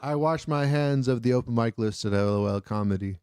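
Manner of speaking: put-on comic British accent; Jeff. Club host washing his hands, mock British accent. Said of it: "I can only do a British accent when I'm doing Jeff".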